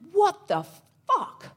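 high-pitched stunned what the fuck; imitating a huge man caught totally off guard; mock shocked outburst. Big guy on the street stunned she didn't move, high shocked outburst. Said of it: "he looked at me and went".

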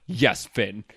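lightly pointed, low-pitched imitation; understated pointed reply. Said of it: "like, pointedly".

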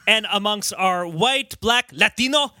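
mock over-accenting on the word Latino; overdone Latino accent. Host imitating white people who overdo one foreign word, overdone Latino accent. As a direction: say it plainly, then hit Latino with a heavy accent. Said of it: "extremely heavy with an accent".

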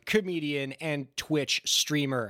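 rushing the whole list without a breath; all in one breath. Real, not acted. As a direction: cram it all into a single breath. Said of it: "I can't believe I got all that out in one breath".

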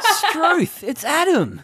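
hammed-up Aussie exclamation; Australian accent. Friends joking in an Australian accent. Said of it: "practice our Australian accents".

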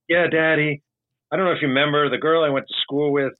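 a hint of a daughter asking her dad; imitated daughter. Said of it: "it's his, uh, his daughter".

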